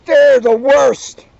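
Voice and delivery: high, loud, slow dread; high squeak. A narrator's reading. Mona dreading Leona's nasty friends, high squeal. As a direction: stretch out a frightened squeal. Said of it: "Mona squeaked".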